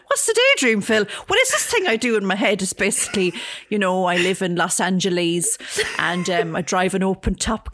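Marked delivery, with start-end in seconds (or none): 0.1-2.6 mock boss. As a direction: boss asking Phil, higher and louder. S1 voicing the boss questioning Phil.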